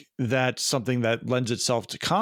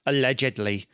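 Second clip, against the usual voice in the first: lightly put-on Wisconsin accent on "Allegedly"; a hint of Wisconsin in "Allegedly"; Charlie Berens. Shown as a demonstration. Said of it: "put that in the Barons way".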